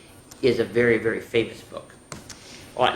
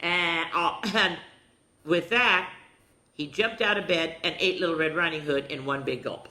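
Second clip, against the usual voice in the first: put-on higher, lively read-aloud to young listeners; children's storytime reading; 6 semitones higher than usual. A narrator's reading. Reading Little Red Riding Hood aloud to children, storytelling voice. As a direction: tell the fairy tale to little ones with a lift.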